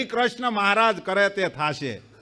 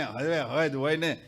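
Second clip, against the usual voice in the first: weary mock complaint; 6 semitones lower, 4 dB quieter, slower than usual. The same devotee repeats it, lower and slower, worn out. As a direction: lower and slower, a drawn-out grumble.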